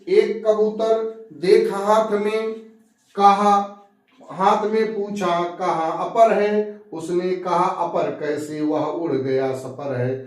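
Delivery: slow, drawn-out poem chant; measured recital of a couplet; verse recitation. Acted. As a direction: stretch each phrase, falling at the close.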